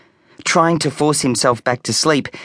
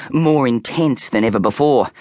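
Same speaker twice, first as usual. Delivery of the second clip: ordinary delivery, nothing marked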